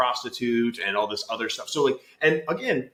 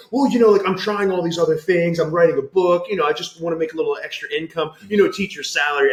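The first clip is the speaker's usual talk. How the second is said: high, chummy teacher voice; overfriendly and a bit sheepish; awkward principal; 4 semitones higher than usual. Retold or imitated. Principal chatting up students in his car, high and chummy. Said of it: "He's like".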